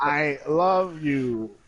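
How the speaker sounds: slow, robotic text-to-speech voice; computer voice. Pretend. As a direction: talk like a speech synthesizer, very slow. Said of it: "computer voice".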